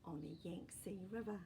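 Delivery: gentle, even storybook reading; story narration. A narrator's reading. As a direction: read it like a bedtime story for kids. Reading a picture book aloud.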